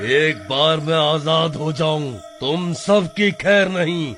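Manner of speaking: low, menacing ghost voice; trapped ghost threat. Acted. Ghost trapped in sacred thread threatening villagers, low menace. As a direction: promise revenge from the trap.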